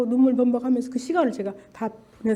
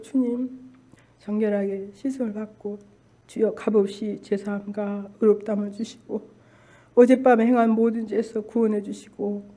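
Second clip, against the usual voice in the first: even, measured prayer voice; recited prayer. Retold or imitated. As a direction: pray steadily, phrase by phrase. Re-enacts morning prayer.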